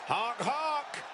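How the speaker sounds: high goofy clown honk; silly clown. Pretend. Commentator mocks dim duo.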